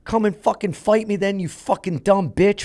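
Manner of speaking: high, heated taunting yell; mock taunt. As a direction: goad him into a fight. Retold taunting of attacker.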